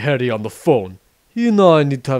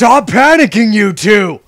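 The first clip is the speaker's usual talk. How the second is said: raised, higher voice telling them off; loud, irritated scolding; exasperated yell; 6 semitones higher, 8 dB louder than usual. Acted. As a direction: snap them out of their panic. Drake snaps at panicking friends.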